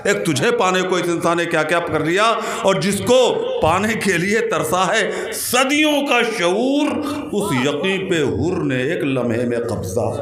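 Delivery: ringing, drawn-out verse declamation; जोशीला शेर-पाठ. Acted. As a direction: stretch the key words, then settle at the close. जोश में शेर. (खींच-खींच कर जोश से शेर पढ़ना)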